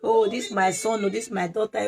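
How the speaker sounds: imitating a mild, moaning lament; a touch of put-on wailing; mock crying. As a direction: act out someone bemoaning their troubles. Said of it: "You don't need to be crying".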